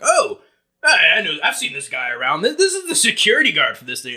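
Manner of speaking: easygoing dad recognising the guy; stepdad's voice. Retold or imitated. Stepdad reassuring son, mild imitation. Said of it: "my stepdad Alex is like".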